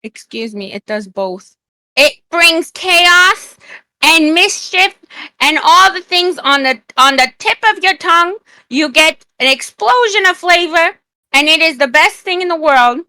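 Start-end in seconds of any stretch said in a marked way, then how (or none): 2.0-13.0 excited pitch. Real, not acted. Hyping up the orange juice.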